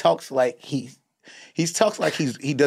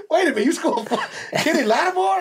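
mock surprise; 13 semitones higher than usual. Mock surprised fan question.

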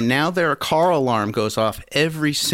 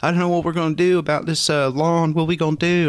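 higher, hurried pleading imitation; mock crying; 5 semitones higher than usual. Crying lady neighbor frets over the lawn, mock tearful. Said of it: "she's, like, crying".

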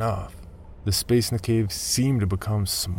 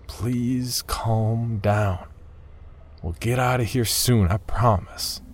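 reassuring; 3 semitones higher, slower than usual. Acted. Calming panicked partner.

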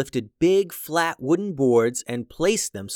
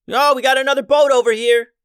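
high excited yell across the deck; shouting from crow's nest; 13 semitones higher, 9 dB louder than usual. A narrator's reading. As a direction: call out loud, spotting a ship. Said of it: "yelled Stella".

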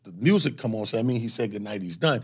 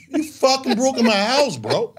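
retold angry yell; 11 semitones higher, 5 dB louder than usual. Confronting the joke thief.

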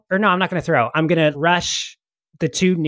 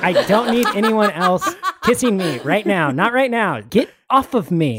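laughing disgust; 7 semitones higher than usual. Acted. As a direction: shove him off while cracking up. Barbarian pushing pirate away, laughing.

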